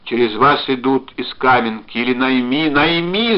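loud, urgent begging; shouted plea. A narrator's reading. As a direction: plead hard down the phone, building to a cry. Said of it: "закричал он".

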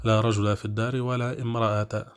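رجل as "rajula" and امرأة as "imra'ata"; accusative endings. Shown as a demonstration. Teacher repeating the example with both nouns accusative, -a endings on رجل and امرأة. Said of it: "كلاهما منصوبان".

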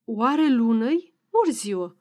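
puzzled, lightly voiced wondering; "Oare lună-i" rising, then "ori ziua" falling; questioning murmur. A narrator's reading. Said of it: "murmură întrebător".

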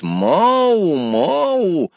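cat meowing. Acted. Cat purrs eating.

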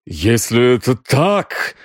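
slow, strained croak; hoarse croak. A narrator's reading. Exposed Грегсон questions his accuser, hoarse. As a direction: croak it out slowly, lips trembling. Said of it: "прохрипел Грегсон дрожащими губами".

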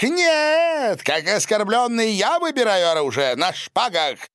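high, loud outraged outburst, far above the narration; indignant challenge. Acted. Silvio furiously demands a duel with swords, shouted high. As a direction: fling it out like a deeply insulted man.

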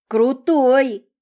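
breathless high delight; admiring gasp. Acted. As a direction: gasp it out in awe. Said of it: "восхищённо выдохнула Монро".

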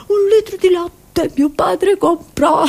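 high burst of laughter at the punchline; laughing punchline. Real, not acted. Comedian laughing at her own milk story, high. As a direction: crack up at the end.

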